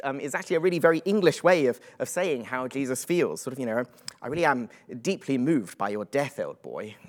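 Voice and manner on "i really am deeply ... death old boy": mock British understatement. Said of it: "you'd have to be the most British person in the world to put it like that".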